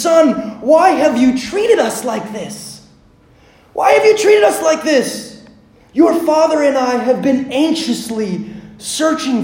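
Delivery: upset mother's high, emphatic reproach; Mary. Acted. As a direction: confront your son, hurt and angry. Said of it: "And so Mary is mad".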